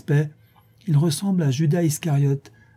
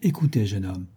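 grave, measured address; solemn; 3 semitones lower than usual. Acted. Portress about to confide in a young man, solemn. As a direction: make it a solemn preamble. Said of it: "d'un air solennel".

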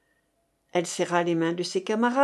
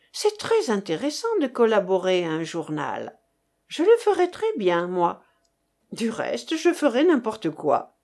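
put-on lively young woman. Nelly answering her colleagues, lightly voiced with eager zest. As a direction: toss it off with bright enthusiasm.

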